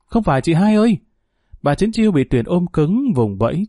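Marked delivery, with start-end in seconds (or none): 0.1-1.0 high-pitched, restrained narrated shout; crying out. A narrator's reading. Young man protests to his sister-in-law, crying out. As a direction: call out in protest, pitched well up. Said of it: "Tuyền la lên".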